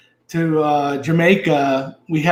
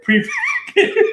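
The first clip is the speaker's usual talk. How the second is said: high, slow laughing word; much slower than usual. Real, not acted. Laughing at the memory.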